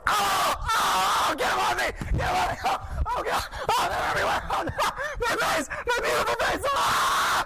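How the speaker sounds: high, loud mock-terror screams; panicked screaming. Performer acting out weasels attacking his face, panicked screaming. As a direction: yell in hammed-up panic, voice way up.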